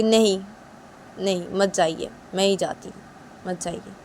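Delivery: daughter-in-law sulking at mother-in-law; sulky Uma. Acted. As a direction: snub her offer sulkily.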